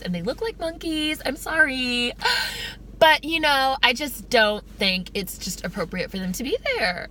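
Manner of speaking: lightly voiced apologetic bigot; polite Klan member. Skit's Klan member excusing his insults, lightly mock-polite. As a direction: lilt upward in mock apology. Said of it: "in a very polite way".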